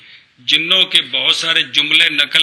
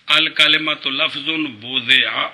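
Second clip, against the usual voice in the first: measured recitation of a lesson text; word-by-word teacher reading; slow text reading; 3 semitones lower, slower than usual. Real, not acted. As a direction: read the Arabic out slowly. Teacher reads out the Arabic text.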